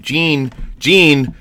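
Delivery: calling out to shoo someone. Pretend. Shooing Gene away mid-interview.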